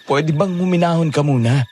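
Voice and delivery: high, exasperated appeal; urgent pleading. Acted. Luis begs Sofia to stop shouting, pleading. Begs panicking girl to keep quiet.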